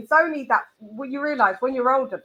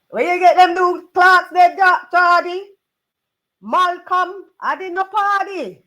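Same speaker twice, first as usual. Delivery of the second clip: mock high voice; 8 semitones higher, 7 dB louder than usual.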